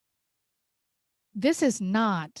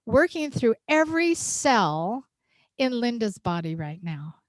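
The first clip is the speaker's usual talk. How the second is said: spoken prayer; 3 dB louder than usual. Shown as a demonstration. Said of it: "if I just say".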